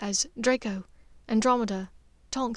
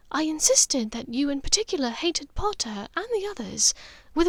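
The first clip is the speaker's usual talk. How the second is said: a hint of a calm, steady mother, a touch higher; Narcissa, lightly voiced; 4 semitones higher than usual.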